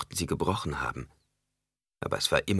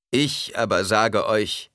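slow, measured, moderately raised declaration; restrained proclamation; 4 semitones higher, 5 dB louder, slower than usual. A narrator's reading. Preacher counters what is said, restrained slow proclamation. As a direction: declare it deliberately, holding back the thunder. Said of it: "Er senkte die Stimme und fuhr fort".

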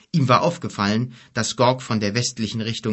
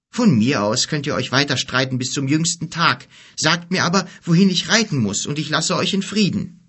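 higher-pitched, mildly impatient plea; exasperated youth; 5 semitones higher, 4 dB louder than usual. Acted. Boy tired of the two quarrelling, exasperated. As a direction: cut through their squabble, wanting directions. Voices weary Kim amid the quarrel.

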